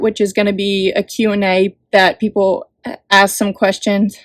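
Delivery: slightly winded, catching breath. Real, not acted. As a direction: talk while a little breathless. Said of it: "Sorry, I'm out of breath".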